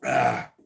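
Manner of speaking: breathless ah after a chug; chugging. Real, not acted. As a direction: gasp after chugging a beer. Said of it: "I never wore a bear suit and chugged a beer before".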